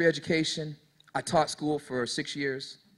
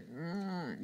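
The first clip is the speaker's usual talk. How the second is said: soft imitated dog moan; 15 dB quieter than usual. Imitating a dog on the porch, soft moaning. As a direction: hum a quiet moan like a dog. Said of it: "the dog is moaning".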